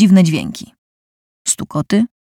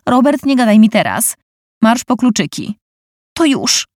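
groaning; 5 semitones higher than usual. Acted. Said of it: "stęknęła pani Kozakowa".

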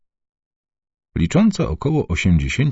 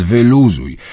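louder, slow drawn-out; almost shouting; 5 semitones higher, 5 dB louder, slower than usual. Acted. Uncle nearly yells at fretting Dunia to relax. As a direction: nearly yell at her to relax. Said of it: "prawie wrzasnął".

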